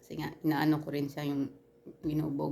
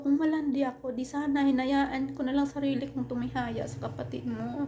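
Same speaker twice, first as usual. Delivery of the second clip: fighting back; 7 semitones higher, 3 dB louder than usual. Retold or imitated. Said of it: "lumaban ako".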